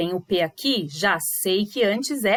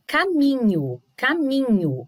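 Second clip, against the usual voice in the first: "caminho" pitched up, with MI strong; stress on MI; 4 semitones higher than usual. Shown as a demonstration. Teacher asking pupils to hear the tonic syllable, stressed MI. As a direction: lift and lean on MI in "caminho". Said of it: "não parece mais forte?".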